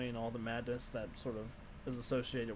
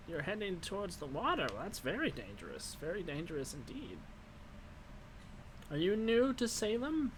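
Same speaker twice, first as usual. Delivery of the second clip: lightly voiced old crone, ominous; a hint of the kindly witch warning; wizened old crone; 5 semitones higher than usual. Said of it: "wizened old crone voice".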